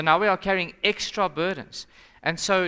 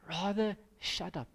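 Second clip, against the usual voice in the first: blunt quiet quote; 3 semitones higher, 8 dB quieter than usual. Retold or imitated. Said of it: "She said to me".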